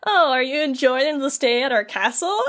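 lightly exaggerated fake politeness; mocking. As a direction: needle him with false hospitality. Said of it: "she kinda starts mocking him".

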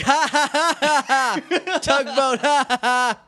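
high, loud, slow forced ha ha ha; aggressive fake laugh. Tommy laughs at Rocky's tugboat joke, slow, aggressive and loud. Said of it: "it's more aggressive than that".

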